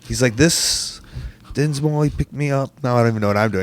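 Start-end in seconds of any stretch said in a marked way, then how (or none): 0.3-2.7 muddled Scottish impression slipping into London accent; botched London accent. Host quoting Grado's voice message in a botched London accent. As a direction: try a southern London accent, badly. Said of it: "I'm doing a Southern Lo-, London accent".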